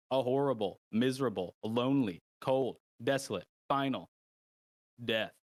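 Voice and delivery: game master reads the ominous prologue; measured storytelling with pauses before the last words; dramatic narration. Acted. Game master sets out the deadly trial, dramatic narration.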